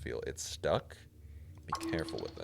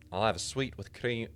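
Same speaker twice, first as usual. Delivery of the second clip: higher-pitched British attempt sliding into Scottish; accidental Scottish accent; 5 semitones higher than usual. Player voicing a tea order, slipping into a Scottish accent. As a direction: aim for British, land in Scottish. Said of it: "I'm going fucking Scottish again".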